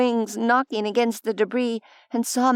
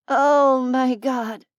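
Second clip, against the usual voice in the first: croaking; 3 dB louder, much slower than usual. Acted. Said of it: "Alice croaked".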